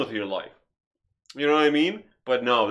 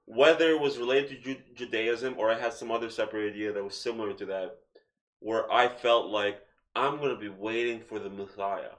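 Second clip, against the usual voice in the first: talking around hard candy; candy in the mouth while speaking; mouth full; 3 semitones lower than usual. Real, not acted. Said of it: "Sorry, I have Jolly Rancher-, Ranchers in my mouth. They sound funny".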